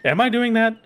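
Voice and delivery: high sudden disbelief; surprised. Real, not acted. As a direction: catch yourself, suddenly alarmed. Sudden self-question, high.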